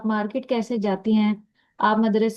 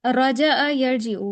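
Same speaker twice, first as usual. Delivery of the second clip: slow, drawn-out teacher model; slow teaching demo; 3 dB louder, much slower than usual. Shown as a demonstration. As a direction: spell the verbs out slowly. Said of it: "اب بنائے متکلم کا صیغہ".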